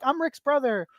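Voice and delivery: a hint of a kid introducing himself; little brother's voice. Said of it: "you do the voice".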